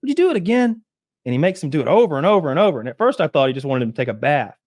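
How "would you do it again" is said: lightly voiced lord. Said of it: "And the guy's like".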